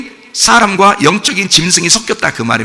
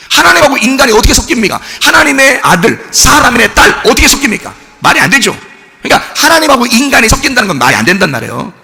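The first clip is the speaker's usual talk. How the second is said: emphatic preaching; 6 semitones higher than usual. Real, not acted. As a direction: drive the point home from the pulpit. Preacher pressing the congregation hard. (높고 크게 힘주어 설교하듯)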